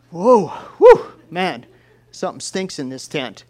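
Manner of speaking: shocked by the stink. Retold or imitated. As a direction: recoil from a stench. Camper smells the cheese.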